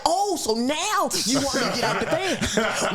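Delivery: mock him through laughter; gleeful taunt at the attacker; mocking, laughing.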